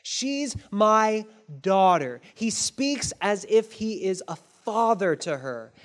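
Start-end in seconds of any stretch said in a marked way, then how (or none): 0.0-2.2 defiant declaration. Acted. Boaz defying social norms.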